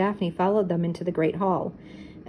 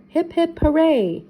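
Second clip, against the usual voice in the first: high cheer rising louder on hooray; repeated toast cheer, louder at the end; cheering again; 9 semitones higher, 4 dB louder than usual. A narrator's reading. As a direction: punch the hooray. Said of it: "everyone cheered".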